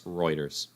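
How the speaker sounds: "Reuters." said as ROY-ders; corrected pronunciation. Shown as a demonstration. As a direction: say "Reuters." with oy up front. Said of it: "that's how you say Reuters".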